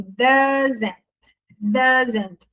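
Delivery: "doesn't" slowly, hard D and full "zent" ending; strong D, clear zent. Shown as a demonstration. Teacher stressing that zent must appear, careful pronunciation. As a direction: pronounce both syllables of "doesn't" distinctly. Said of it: "com um D bem forte e um zent".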